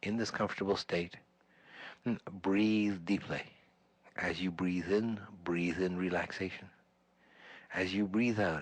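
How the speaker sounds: measured meditation voice with long pauses; unhurried breathing instructions, pausing after each phrase; guided meditation. Acted. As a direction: guide the group into relaxation, phrase by phrase.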